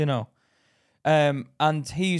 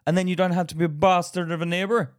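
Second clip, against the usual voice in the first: put-on fast, slightly raised Irish-Indian accent; Irish-Indian accent mix; 4 semitones higher, faster than usual. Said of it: "lovely mix of Irish and Indian accent".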